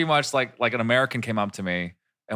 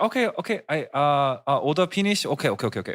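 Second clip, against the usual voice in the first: put-on light Korean accent; 3 semitones higher than usual. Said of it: "she had an accent".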